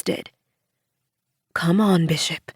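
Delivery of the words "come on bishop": gentle coaxing. A narrator's reading. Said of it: "she gently coaxed".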